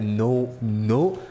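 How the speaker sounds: ordinary talk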